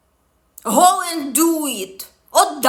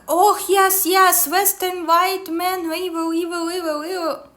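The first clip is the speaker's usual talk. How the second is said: mocking commenters; 5 semitones higher than usual. Vlogger mimics commenters blaming Western men, mocking agreement. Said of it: "everyone in comments".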